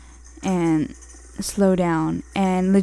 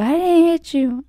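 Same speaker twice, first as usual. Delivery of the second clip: high, louder defensive retort; retold denial from an older man; imitated denial; 9 semitones higher, 4 dB louder than usual. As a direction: snap back the denial. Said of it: "And he's like".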